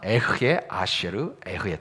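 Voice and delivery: 에흐에 아쉐르 에흐에 recited low and measured, h from the throat; Hebrew reading demo. Shown as a demonstration. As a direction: read 에흐에 아쉐르 에흐에 slowly, rasping each 흐. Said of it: "저렇게 읽습니다".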